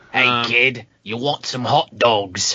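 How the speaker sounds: vague, generic put-on European accent. Riffing with others about an uncle hanging around the pool, in a European uncle accent. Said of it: "That's a decent one".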